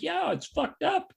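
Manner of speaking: high, slow mocking voice; mock Cuomo. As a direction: drag it out high like a mockery. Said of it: "being like".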